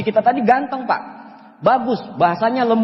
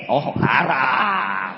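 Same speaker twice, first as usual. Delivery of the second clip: slow mock lament then laugh; mock wail; 8 semitones lower, 5 dB quieter, much slower than usual. Real, not acted. Being told it's forbidden, mock crying then laughing. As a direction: pretend to mourn, then laugh.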